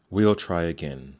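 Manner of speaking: forceful, narrated hiss. A narrator's reading. Stepmother insisting to the father, hissed loudly. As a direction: push the words out hard and loud. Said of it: "she hissed".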